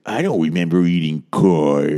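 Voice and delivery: lightly voiced Carol Channing quote; playful nod to Carol Channing; Carol Channing impression. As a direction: mimic Carol Channing, a touch of her voice. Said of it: "the last thing she would say is".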